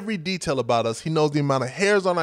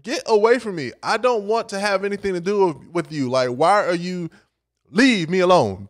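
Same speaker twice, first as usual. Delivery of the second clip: fed-up rejection, pitched up; Professor Oglesby's irritation; 3 semitones higher than usual. Retold or imitated. Professor tells admirer to leave him alone, irritated. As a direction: shove her off, emphatic and exasperated. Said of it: "That was his attitude and his energy".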